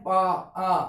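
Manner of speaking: पा then a held आ, showing the long vowel; isolating the aa sound. Shown as a demonstration. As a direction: split पा and stretch the आ. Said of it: "आ के sound आ रहा है". (पा बोलकर आ की लंबी आवाज़ अलग से दिखाओ)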